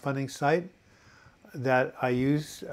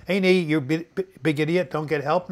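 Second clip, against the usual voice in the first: loud, raised mock scolding; mock yelling; 3 semitones higher, 5 dB louder than usual. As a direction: pretend to berate your own knee. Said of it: "I'm not gonna yell at my knee".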